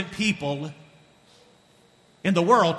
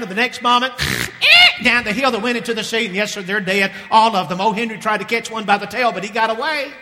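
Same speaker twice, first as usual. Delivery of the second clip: higher, a flustered worker explaining; mock-panicked report to the boss; nervous herder; 4 semitones higher than usual. Herders telling their boss the pigs died, flustered.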